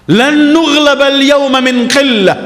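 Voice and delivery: high, drawn-out mock battle cry; retold boastful cry. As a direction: imitate troops crying out boastfully, high and slow. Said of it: "kemudian mereka teriak".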